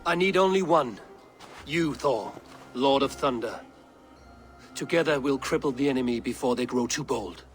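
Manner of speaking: loud, low royal voice; booming command. Acted. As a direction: speak like a stern king. King chooses Thor for battle.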